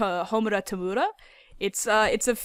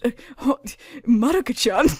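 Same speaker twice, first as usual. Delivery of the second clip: put-on tearful anime girl voice; 3 semitones higher, 4 dB louder than usual. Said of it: "she'd be like".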